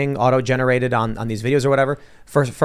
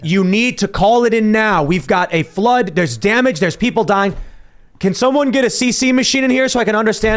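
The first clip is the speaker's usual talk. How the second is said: mocking a confused senator; 7 semitones higher than usual. Podcaster mocks the senator who cannot follow an emergency, in a higher, hammed-up panicked voice. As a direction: ham up a lost man begging for captions. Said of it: "he's gonna be going".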